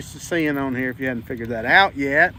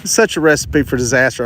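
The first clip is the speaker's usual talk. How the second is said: phone held in teeth; 8 dB louder than usual. Real, not acted. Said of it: "I've got the phone in my mouth".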